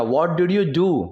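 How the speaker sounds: very slow, word by word for learners; slow model reading. Shown as a demonstration. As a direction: spell it out slowly like a teacher. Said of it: "teacher models English question". (बहुत धीमे, शब्द-दर-शब्द पढ़ाते हुए)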